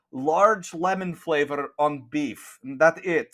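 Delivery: nun with blunt, broken English; lightly voiced nun vendor. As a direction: explain it in halting English as a stern nun. Plays a nun selling food.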